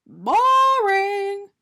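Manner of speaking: high, loud unimpressed dismissal; bored donut voice. A narrator's reading. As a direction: wave it off bored. Arnie rejects idea.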